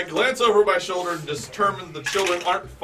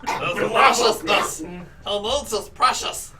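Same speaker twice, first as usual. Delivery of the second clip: tiny homunculus voice; 5 semitones higher, 3 dB louder, slower than usual. Acted. Character voice in play, far timbre.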